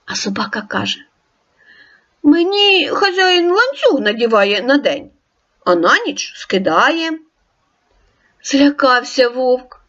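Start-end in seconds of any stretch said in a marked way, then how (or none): 2.2-7.2 friendly dog, voiced higher; storybook dog greeting the wolf; dog character. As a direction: ask like a curious friendly dog.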